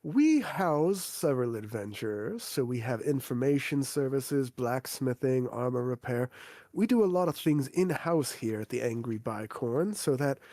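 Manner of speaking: a hint of a prim innkeeper, measured. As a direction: innkeeper explaining the services to the new adventurers, lightly voiced and polite. GM voices the innkeeper.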